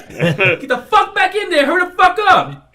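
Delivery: high, forceful scolding command; re-enacted angry command; retold barked order. Retold ordering kid into booth.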